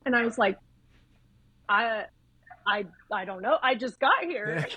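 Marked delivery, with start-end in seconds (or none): 1.7-4.7 halting, retold bewildered excuse; flustered stammer. Nurse questioned by neurosurgeon at shift start, mock flustered. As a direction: stammer with pauses, as if caught off guard. New nurse put on the spot.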